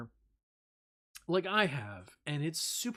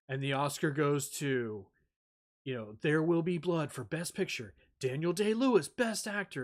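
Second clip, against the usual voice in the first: louder, rising awards-show announcement; mock Oscar announcer; 3 semitones higher, 5 dB louder than usual. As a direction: announce the winner with fanfare.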